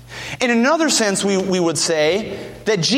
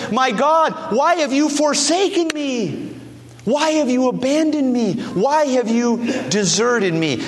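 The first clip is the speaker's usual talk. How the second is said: preached cry; 6 semitones higher than usual. Acted.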